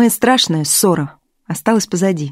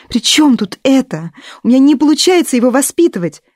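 high, agitated complaint; exasperated, pitched up; upset; 7 semitones higher, 4 dB louder than usual. Acted. Upset stepmother complains to husband.

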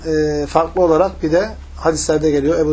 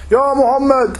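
higher-pitched calling out; mock yell; 6 semitones higher, much slower than usual. Bedouin calling the Prophet by name, mock yell. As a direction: hail him from afar. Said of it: "bağırıyor Peygamber Aleyhisselatü Vesselam'a".

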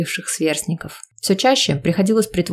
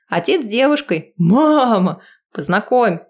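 surprised shout; 4 semitones higher than usual. Acted. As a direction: shout it out in disbelief.

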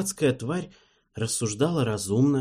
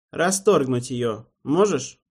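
hopeful; 3 semitones higher, 4 dB louder, slower than usual. Acted. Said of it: "спросил демон с неожиданной надеждой".

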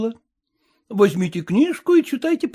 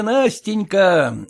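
tender; 4 semitones lower, much slower than usual. Acted. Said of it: "сколь ты ... глупа есть".

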